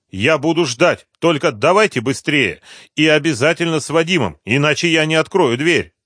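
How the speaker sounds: a hint of an uneasy woman; anxious woman. A narrator's reading. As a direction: hurry them up nervously. Rimma pleads on phone.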